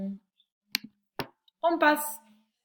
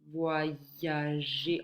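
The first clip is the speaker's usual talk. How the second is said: "Voyager" slowly split, pitched lower; syllable by syllable; 4 semitones lower, 3 dB quieter than usual. Shown as a demonstration. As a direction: draw out each syllable of "Voyager". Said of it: "ye sur la seconde syllabe".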